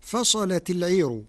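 heavy, dark lam in فصلت; Warsh reading. Shown as a demonstration. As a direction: thicken the l of فصلت, light r in العير. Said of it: "بتغليظ اللام".

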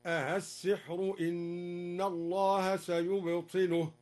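"السحر" begun with two short a's, the second softened; slow recitation, short eased "a-as" opening on "السحر"; softened second hamza. Shown as a demonstration. Teacher showing the second way, "السحر" with softened hamza, no long madd. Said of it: "تسهيل الهمزة الثانية بدون مد".

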